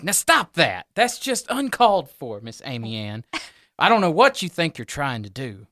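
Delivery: rising huffy reprimand; indignant monster scolding. Acted. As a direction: tell them off like a fussy host whose manners were insulted. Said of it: "he goes".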